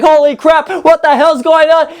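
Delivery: mock shock. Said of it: "it's like".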